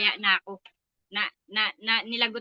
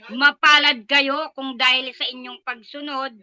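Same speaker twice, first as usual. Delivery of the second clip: slow scripture line breaking into a cry; tearful reading. Real, not acted. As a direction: voice catching with real tears, slowed.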